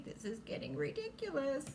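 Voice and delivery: a hint of a fed-up pet; imagined Nikki. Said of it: "Nikki probably thinks that way".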